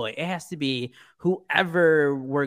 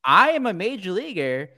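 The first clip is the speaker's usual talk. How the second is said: much higher, exasperated teammate voice, laughing on the name; mock Eloy rant; 6 semitones higher than usual. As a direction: squeak out an annoyed outfielder scolding his teammate. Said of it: "and he's like".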